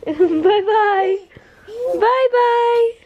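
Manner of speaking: high, playful laughing bye-bye; sing-song bye-bye. Real, not acted. Mom plays bye-bye with her son in a high sing-song. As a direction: wave him off sing-song. Mother waves bye to toddler.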